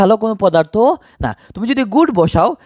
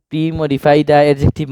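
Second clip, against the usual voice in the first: slow read; 3 semitones lower, much slower than usual. Shown as a demonstration. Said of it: "এটা না বুঝো".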